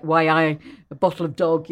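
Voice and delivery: lightly imitated northeast English accent; mild mock Geordie accent; northeast England accent. Shown as a demonstration. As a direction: demonstrate a northeast England dialect. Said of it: "There's the northeast of England".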